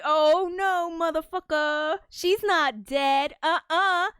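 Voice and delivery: high, loud indignant refusal; sassy mock defiance. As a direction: play a hammed-up character flatly contradicting someone. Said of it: "he's like".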